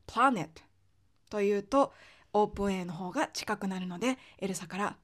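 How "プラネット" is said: プラネット as English planet with a Japanese open 'ah'; Japanese A vowel. Shown as a demonstration. Teacher shows the flagged mistake, open Japanese ah. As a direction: put a plain Japanese あ in place of the American A in プラネット. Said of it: "あという日本語を使って".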